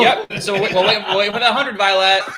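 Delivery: loud playful call to a viewer. Real, not acted. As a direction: shout it out to the audience. Calling out to viewer Violet.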